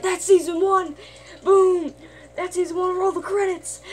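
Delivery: high, loud, hyped announcement; triumphant shout. Retold or imitated. Rick hyping the season finale, high triumphant shout. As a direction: announce it like a victory.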